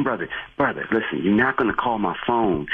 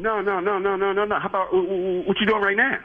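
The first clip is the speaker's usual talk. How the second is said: higher-pitched indignant dare to meet up; heated challenge; 8 semitones higher than usual. Real, not acted. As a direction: rise up and call him out. Attendant fires back at caller.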